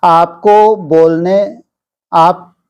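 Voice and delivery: slow, measured devotional reading; scripture reading aloud. Acted. Teacher reading a sermon to disciples, measured scripture reading. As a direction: read it out deliberately, with long pauses between phrases.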